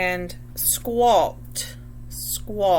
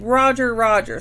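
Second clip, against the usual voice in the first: parrot squawk; 4 dB louder than usual. Shown as a demonstration. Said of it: "and then he said".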